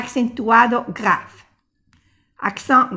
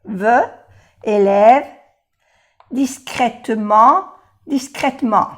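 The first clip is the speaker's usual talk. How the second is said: Sincèrement, élève called out louder; louder drill; 5 dB louder than usual. Shown as a demonstration. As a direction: project the words for the class. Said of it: "laughs then repeats words".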